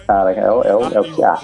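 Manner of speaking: deep, lightly voiced priest; Henrique Cristo accent. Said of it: "o sotaque de Henrique Cristo".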